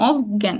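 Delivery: অজ্ঞান with a held double g, "og-gyan"; doubled g. Shown as a demonstration. Teacher showing mid-word rule, double g in অজ্ঞান. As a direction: hold the g in অজ্ঞান. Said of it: "double একটা উচ্চারণ হবে".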